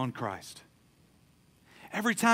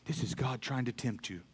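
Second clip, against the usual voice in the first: tempting whisper; 6 semitones lower, 10 dB quieter than usual. Retold or imitated. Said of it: "He'll try to whisper in your ear".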